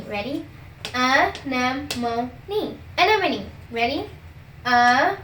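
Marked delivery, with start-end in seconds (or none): 0.9-2.3 stretched very slowly, teacher model; slow demo. Shown as a demonstration. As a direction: drag each syllable out slowly. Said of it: "Me first, then you".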